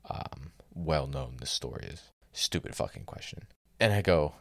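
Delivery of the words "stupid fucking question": whispered "Stupid fucking question", a contemptuous repeat; muttered insult. Real, not acted.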